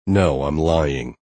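slow, dry sarcasm; drawn-out deadpan sarcasm; sarcastic. Acted. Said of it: "I say sarcastically".

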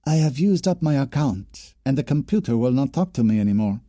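a worried student explaining; young woman voice. Acted. Jacqueline voiced in dialogue.

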